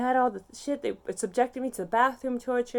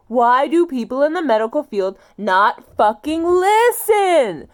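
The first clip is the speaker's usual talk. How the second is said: much louder and higher, each word driven hard; furious slow shout; 5 semitones higher, 14 dB louder, slower than usual. Real, not acted. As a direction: make the whole room hear it. Yelling at medical staff.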